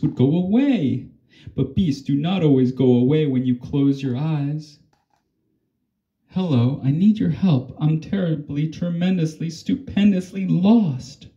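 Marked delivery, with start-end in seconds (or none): 6.3-11.3 lightly voiced beast, raised pitch, not a real roar; a lost beast calling out for help, only hinted; mild beast roar. Lost beast asking the girl for help, mildly roaring. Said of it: "roared the beast".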